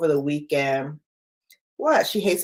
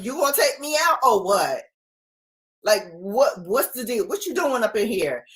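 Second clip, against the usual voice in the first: quick, bossy pet talking back, raised; sassy dog voice; 3 semitones higher than usual. Retold or imitated. The impatient dog to her owner in the bathroom, sassy and quick.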